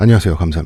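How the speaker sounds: put-on low voice. Greeting the host when welcomed on the show, deliberately lowered voice. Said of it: "왜 이렇게 목소리를 깔고 그러세요?".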